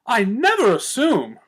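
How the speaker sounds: high, slow, grand and offended; grand air. A narrator's reading. Rarity offended at Twilight, high grand air. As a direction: draw yourself up, haughty. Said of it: "Rarity cried, taking on a grand air".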